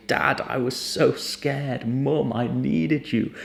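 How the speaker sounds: slow, mildly pleading; understated heartfelt plea, unhurried; acted confession. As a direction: draw it out, as if finally telling your parents. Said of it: "you might say".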